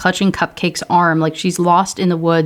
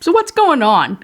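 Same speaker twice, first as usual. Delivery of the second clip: mocking Samantha voice; 12 semitones higher than usual. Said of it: "she's like".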